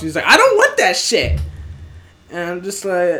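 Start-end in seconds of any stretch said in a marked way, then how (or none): 0.3-1.4 high, loud mock outburst; angry customer. Customer turning down other options, angry retold outburst. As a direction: snap back like a fed-up customer.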